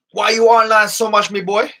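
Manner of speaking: high, loud mock questioning; Pickles D Gajin. Host quoting a viewer's question, high mock voice. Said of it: "Pickles D Gajin was saying it".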